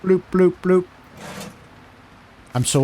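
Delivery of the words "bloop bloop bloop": scanner beep imitation. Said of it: "scanner noise imitated".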